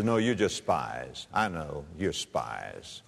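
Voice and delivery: mock rough accusation. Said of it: "he's speaking roughly to them".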